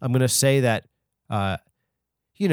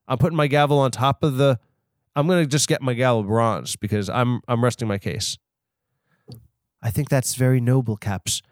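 ordinary delivery

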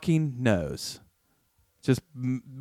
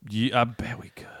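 whispering; 4 dB quieter than usual. Real, not acted. Joking whisper aside.

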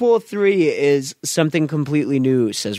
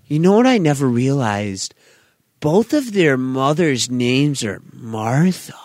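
mock writer's pitch. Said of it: "one of them probably went".

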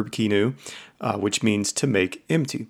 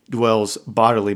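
voice cracking. Real, not acted. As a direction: voice cracks on a word. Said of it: "my voice just cracked".

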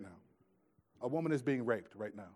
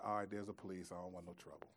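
much softer, timid give-up voice; meek backing down; 9 semitones lower, 13 dB quieter, faster than usual. Retold or imitated. Preacher voices a fan backing off from police, meek and soft. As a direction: sound like someone who wants no trouble.

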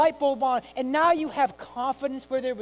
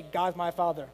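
lower, unemotional mock recital; like a robot; 4 semitones lower than usual. Shown as a demonstration. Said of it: "like a robot".

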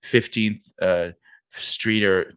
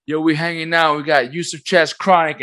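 a rapper's voice; 8 semitones higher than usual. Retold or imitated. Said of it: "a rapper would be like".

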